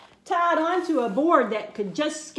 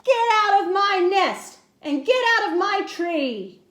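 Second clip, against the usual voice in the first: angry bird; 5 semitones higher than usual. A narrator's reading. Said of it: "she sputtered".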